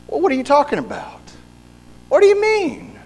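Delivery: high, fast, wide-eyed protest of innocence; a squeaky, exaggerated what-do-you-mean; mock indignant denial. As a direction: play the caught cheater acting shocked. Adulterer caught, feigning innocence.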